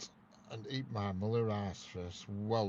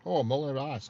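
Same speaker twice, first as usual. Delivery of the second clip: sudden realisation; 6 semitones higher, 8 dB louder than usual. Real, not acted. Catching on to Muller Ice.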